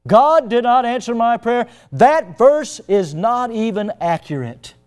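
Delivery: high, loud mock fury; angry outburst. Woman confronting the preacher, loud and angry. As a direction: let the grieving woman's anger fly at him. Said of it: "she lit into him".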